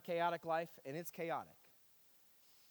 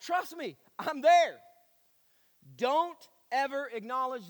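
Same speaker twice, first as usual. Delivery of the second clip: emphatic preaching; 4 semitones higher, 8 dB louder than usual. Acted. Preaches mock bad advice.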